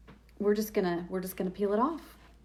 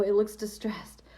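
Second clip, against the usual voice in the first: whisper. Real, not acted. Aside to commenter Tessa.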